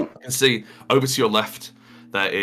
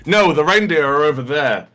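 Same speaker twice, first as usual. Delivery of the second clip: lady official; 2 semitones higher than usual. Acted. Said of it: "she says".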